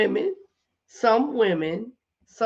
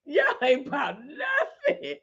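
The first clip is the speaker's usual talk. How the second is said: slow words breaking into laughter; laughing at babies; 3 semitones higher, slower than usual. Retold or imitated. Teasing the babies at the table, laughing. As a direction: scold them while cracking up. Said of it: "I was like".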